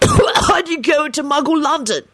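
high-pitched indignant question; incredulous, high demand. A narrator's reading. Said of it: "he demanded".

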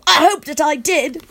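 high, loud eager outburst; near yell. A narrator's reading. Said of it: "I practically yell".

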